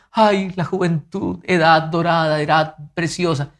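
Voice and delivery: mock sigh of longing for youth; imitated wistful elder. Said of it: "ven a los jóvenes y dicen".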